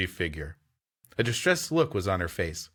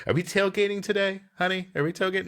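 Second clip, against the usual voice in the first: chirpy high neighbour voice; perky tailgate neighbour; mock neighbour; 8 semitones higher, faster than usual. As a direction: play a cheery camper neighbour asking. Mock camper neighbour calling out.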